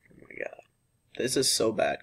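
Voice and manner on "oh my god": breathy whispered disbelief; whispered oh my God. Real, not acted. Vlogger to viewers after the sugar, whispered dread. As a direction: whisper it, overwhelmed.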